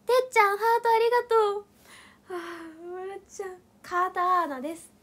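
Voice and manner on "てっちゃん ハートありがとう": loud thanks. Real, not acted. Loud thanks after laughing.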